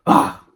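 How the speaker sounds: short, loud exasperated "ah"; frustrated growl. Acted. King storms off from the doctor, loud exasperated cry.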